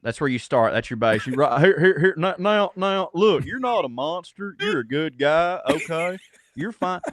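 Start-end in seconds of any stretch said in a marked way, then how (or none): 1.3-7.0 a light take on a folksy TV therapist, a bit higher and reassuring; Doctor Phil impersonation. Shown as a demonstration. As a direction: soothe him like a daytime talk-show shrink, lightly done. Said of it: "You start out with a Doctor Phil impersonation".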